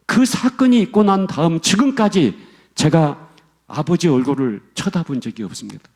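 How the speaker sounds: ordinary talk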